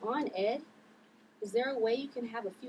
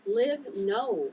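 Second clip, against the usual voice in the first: laughing denial; 2 semitones higher, 6 dB louder than usual. Acted. Ella laughing at accusation.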